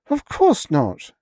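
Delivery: slow, loud, high snap; snapping. Acted. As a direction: bite the words off. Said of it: "she snapped".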